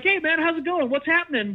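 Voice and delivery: imitating a breezy cheerful friend; mock cheerful. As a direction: parody his fake cheer lightly. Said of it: "this cheerful thing".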